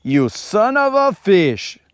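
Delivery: bad Schwarzenegger accent, drawn out; Schwarzenegger impression. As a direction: ham up a slow Arnold Schwarzenegger line. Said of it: "and then he goes".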